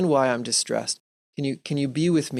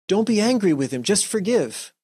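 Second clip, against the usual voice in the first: preachy brush-off; 5 semitones higher than usual. Retold or imitated. Friend brushing off an angry colleague, mock pious. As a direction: play the friend who waves the anger away.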